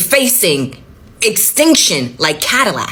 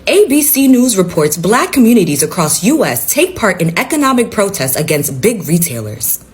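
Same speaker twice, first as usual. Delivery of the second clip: newsreader delivery; anchor voice; 3 semitones lower than usual. Acted. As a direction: read it like a TV news anchor. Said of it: "I'ma put on my best anchor voice".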